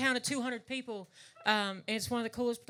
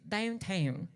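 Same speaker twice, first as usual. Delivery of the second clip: "Downtown" with papa's Virginia Ulster Scots vowel; Ulster Scots Virginia accent. Retold or imitated. Papa's Virginia Ulster Scots "Downtown". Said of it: "my papa, he'd say".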